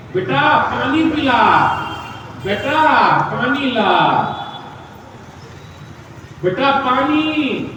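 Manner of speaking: slow, drawn-out plea for water; frail parent asking. Retold or imitated.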